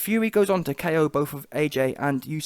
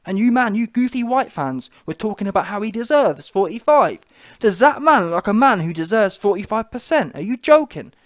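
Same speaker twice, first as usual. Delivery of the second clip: loud, heated rant; angry rant; 5 semitones higher, 6 dB louder than usual. Real, not acted. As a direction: call the fans out, fired up. Ranting at fans about pay.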